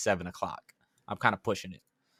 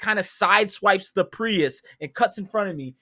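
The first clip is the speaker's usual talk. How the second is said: normal talking voice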